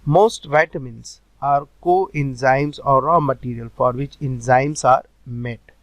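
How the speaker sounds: slow, word-by-word dictation pace; slow note dictation. Shown as a demonstration. Teacher slowly dictating notes to students, word by word. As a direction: read it out slowly so students can write.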